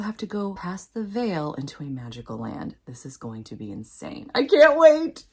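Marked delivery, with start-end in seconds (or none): 4.4-5.3 higher and louder, bouncing with eagerness; can't contain the excitement; eager little squeal; excited. Real, not acted. Excited about upcoming book.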